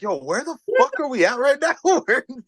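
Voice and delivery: high-pitched, incredulous mock outburst; retold bafflement. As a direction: act out being baffled on stage. Retold baffled reaction to heckler.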